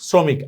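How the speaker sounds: শ্রমিক with a rounded o after the r; O vowel shown. Shown as a demonstration. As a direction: say শ্রমিক as "sro-mik". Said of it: "স এর ফলে ওকার লাগবে".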